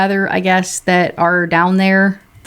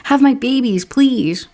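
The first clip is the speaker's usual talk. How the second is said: swooning Rob; 7 semitones higher than usual. Retold or imitated. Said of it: "he'd be like".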